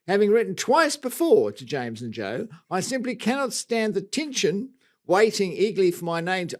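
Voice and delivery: lightly put-on Australian accent. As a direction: settle into an Aussie accent while reading a letter. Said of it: "I'm gonna get, get into it".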